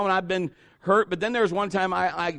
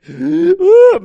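loud, high mock wail; big crocodile-tears wail; fake cry; 13 semitones higher, 14 dB louder than usual. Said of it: "cry crocodile tears".

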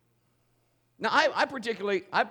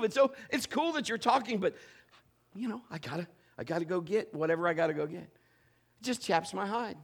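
normal talking voice

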